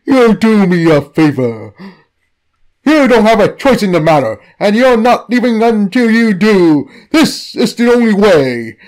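insistent demand. Acted. God insists.

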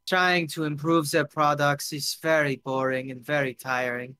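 put-on lightly accented, hesitant guest; halting answer with a foreign accent; tipsy foreign guest. Drunk guest explains his old job, hesitant and accented.

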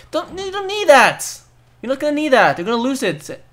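real alarm; urgent warning. Real, not acted. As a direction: stop them before they grab it.

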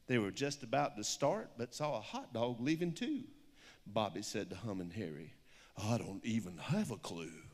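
lilting rhyming picture-book read; story reading. Acted. Author reads her picture book aloud to an audience, storybook lilt. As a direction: read the rhyme with a steady storybook bounce.

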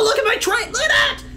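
high, awestruck squeal; excited shout. Real, not acted. Player marvelling at the train, excited shout. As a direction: squeal with high-pitched amazement.

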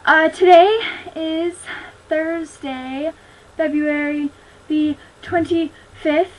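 slow, breathless date announcement; winded, catching breath. Real, not acted. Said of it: "Sorry, I'm out of breath".

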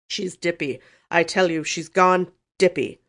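loud, indignant uncle; angry snort. A narrator's reading. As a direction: insist angrily, drawing out the last words. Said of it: "he snorted angrily".

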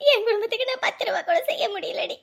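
crying while laughing; tearful. Acted. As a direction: break down on the words. Wife crying to friend.

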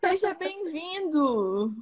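high, stretched-out sweet welcome; cooing welcome. Real, not acted. Host welcomes colleague's little boy, cooing. Welcoming the child who appeared.

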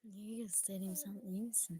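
sessizce fısıldayarak; kardeşine gizlice fısılda; fısıltı. Real, not acted. (fısıldayarak)

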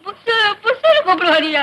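sobbed demonstration of husband's pet call; tearful imitation. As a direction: imitate his call while crying. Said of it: "உன் புருஷன் எப்படி கூப்பிடுவாரு?". (அழுதபடி கணவரைப் போல் அழைத்தல்)

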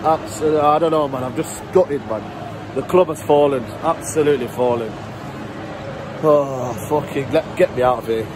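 a lightly played heartbroken United fan, ranting on and on; gutted fan rant. A gutted fan rants to camera about his club, mildly hammed-up. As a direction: vent like a fed-up season ticket holder, half-mocking.

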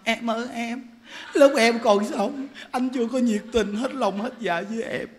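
a touch of woeful pleading; mock regretful lament. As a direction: lament to a dead wife with understated pretend remorse. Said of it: "Chết rồi đi than thở".

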